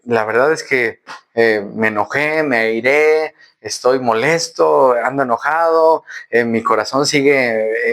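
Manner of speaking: low, slow, heavy-hearted prayer; humble confession. Acted. A believer confessing anger to God, low and slow.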